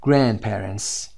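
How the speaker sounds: "Grandparents." said very slowly as gran-parents, no d sound; drop the d. Shown as a demonstration. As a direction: stretch "Grandparents." out and skip the d. («Grandparents.» آهسته و بدون صدای د)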